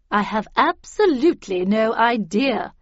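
loud, emphatic grande dame; brisk, commanding old lady; imperious Miss Havisham. A narrator's reading. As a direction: answer loudly and dismissively.

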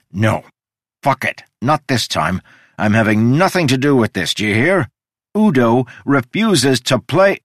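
defiant proclamation. Acted. Udo storms out proclaiming.

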